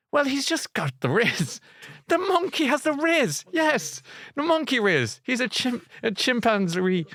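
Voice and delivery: high, slow mocking swoon over the chimp. Mocking the women who fancy the ape, high slow swoon. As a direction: ham up a smitten fan.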